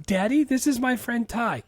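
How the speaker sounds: high-pitched daughter introducing a friend; quoting Cher. Acted. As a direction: play the teen girl talking to Daddy. Acting Cher introducing her friend.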